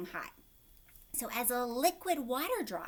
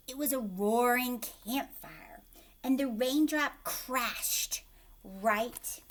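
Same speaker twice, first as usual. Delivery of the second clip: louder, slow storybook read; story reading; 4 dB louder, slower than usual. A narrator's reading. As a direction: read it big for the class. Reads story aloud.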